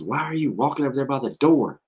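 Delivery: high-pitched imitation of a worried student; high, incredulous mock alarm; imitating alarmed girl. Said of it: "She goes".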